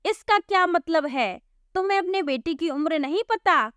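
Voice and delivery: a touch of a cross constable; understated irritated cop; angry policeman. Acted. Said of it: "फिर हवलदार गुस्से से बोला".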